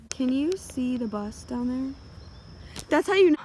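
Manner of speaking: high, loud and excited; thrilled the bus is here. Real, not acted.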